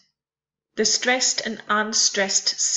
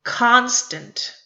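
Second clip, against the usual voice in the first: "Constant" with weight on the first syllable, falling away; stressed then unstressed; 3 dB louder than usual. Shown as a demonstration. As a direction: stress CON in "Constant", let -stant drop. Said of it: "one stressed and one unstressed".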